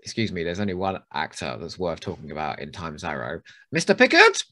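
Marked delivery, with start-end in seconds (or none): 3.7-4.4 higher and louder mock plea to Picard; hammed-up character quote. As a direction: belt it like a pushy guest star.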